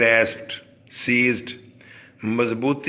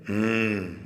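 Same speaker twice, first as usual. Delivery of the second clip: a soft low closed-mouth hmm, falling; thoughtful hmm; 3 semitones lower, 5 dB quieter, much slower than usual. Acted. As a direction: hum hmm softly as if weighing the boy up. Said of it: "तो औरत कहती है".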